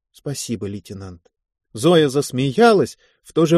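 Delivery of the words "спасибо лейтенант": soft, hushed thank-you; quiet thanks. A narrator's reading. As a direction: barely voice the thanks. Zoya quietly thanks Davlatyan.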